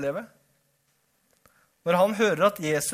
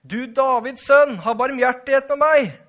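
louder shouting; 7 semitones higher, 9 dB louder than usual. A narrator's reading. Hushed blind beggar cries harder to Jesus, loud shouting. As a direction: shout it at full voice to be heard over the crowd. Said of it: "ropte bare enda høyere".

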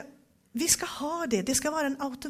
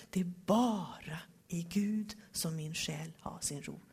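hushed whisper, lower in pitch; whispered verse; 6 semitones lower, 6 dB quieter than usual. Acted. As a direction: breathe the psalm line softly. Quiet psalm verse read. (viskad bibelvers)

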